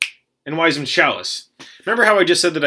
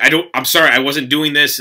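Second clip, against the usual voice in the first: mildly flustered, raised protest; retold freak-out; 4 semitones higher, 4 dB louder than usual. Player apologizing to judges, mock freaking out. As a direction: replay a panicky apology, a bit louder and higher. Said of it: "I was freaking out".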